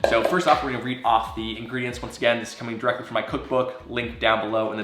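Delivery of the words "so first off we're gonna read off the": stuffy nose from a cold; nasal voice. Real, not acted. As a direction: speak through a blocked nose. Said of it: "apologize for the nasally voice".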